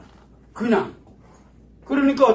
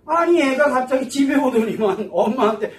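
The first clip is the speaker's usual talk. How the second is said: ordinary talk, nothing marked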